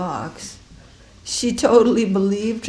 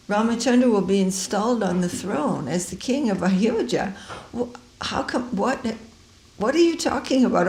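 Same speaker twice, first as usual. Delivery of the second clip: puzzled queen; 4 semitones higher than usual. Acted. Queen Kaikeyi answers Manthara puzzled.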